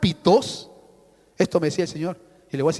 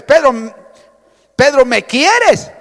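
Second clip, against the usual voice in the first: pleading question; 4 semitones higher, 11 dB louder, slower than usual. Retold or imitated. Jesus asks Peter a third time.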